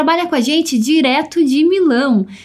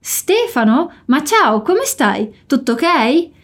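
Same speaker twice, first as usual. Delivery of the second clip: surprised greeting; slower than usual. Shown as a demonstration. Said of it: "com um tom de surpresa".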